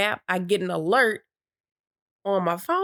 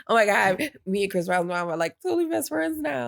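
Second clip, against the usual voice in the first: bragging fan. Retold or imitated. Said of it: "one of those people that's like".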